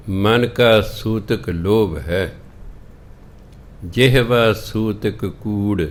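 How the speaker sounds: drawn-out scripture chant, slow; slow scripture recitation. Shown as a demonstration. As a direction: intone the verse slowly, word by word. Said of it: "recites scripture slowly". (ਗੁਰਬਾਣੀ ਦਾ ਹੌਲੀ ਹੌਲੀ ਪਾਠ)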